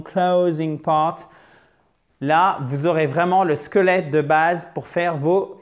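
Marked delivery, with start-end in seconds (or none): 0.0-1.3 slow "closing part", O gliding as a diphthong. Shown as a demonstration. Teacher drilling the term slowly, "closing" with a diphthong O. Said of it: "c'est une diphtongue".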